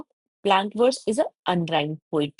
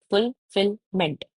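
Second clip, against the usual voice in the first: "फुल, फिल, मेंट" in short separate beats; syllable by syllable. Shown as a demonstration. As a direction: tick off "फुल", "फिल", "मेंट" as three sounds. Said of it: "इसमें three". ("फुल, फिल, मेंट" छोटे-छोटे अलग हिस्सों में)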